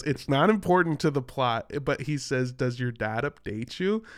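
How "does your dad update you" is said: country Canadian, lifting up on the final "you"; country Canadian accent. Shown as a demonstration. Host showing co-host his way into it, in a country Canadian accent. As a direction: lean into country Canadian vowels, ending upward. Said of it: "doing that to get into the accent".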